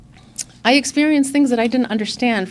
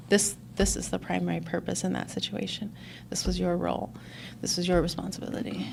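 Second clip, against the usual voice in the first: calm explanation; 10 dB quieter than usual. Retold or imitated. Sponsor explaining calmly.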